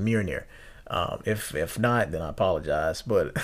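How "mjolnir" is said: Mjolnir said as MYOL-neer, carefully; pronouncing Mjolnir. Shown as a demonstration. After a listener's correction, careful Mjolnir. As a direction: say Mjolnir slowly, as he thinks it goes. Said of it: "that's how you pronounce it".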